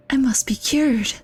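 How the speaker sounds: slow breathy whisper. Pretend. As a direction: whisper it like a secret. Jokey aside after "Arf.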